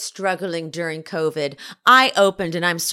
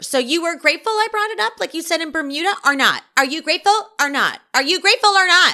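put-on very high, shrill, repeated badgering screaming; 12 semitones higher, 3 dB louder than usual. Retelling a reunion argument, one cast member over another: imitating someone screaming. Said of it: "Monica is screaming over her".

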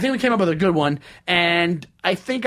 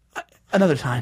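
offhand, low-key, tossed-off aside; 4 semitones lower than usual. Retelling a Seinfeld scene, a son to his dad: imitating saying it really quietly. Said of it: "does really quietly to his dad".

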